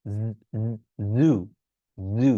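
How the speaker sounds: জু with a voiced buzzing z, held low; buzzing z demo. Shown as a demonstration. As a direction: buzz the z in জু through the throat. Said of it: "practice করবেন কিভাবে". (গলা কাঁপিয়ে জু)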